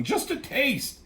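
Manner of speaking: squeaked-out mock begging; mock yell. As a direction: imitate a yelled plea up high.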